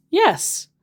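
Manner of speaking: squeaky high mock reply; mock high yes. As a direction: pipe the word up like a joke. Scammer's reply again, mocked.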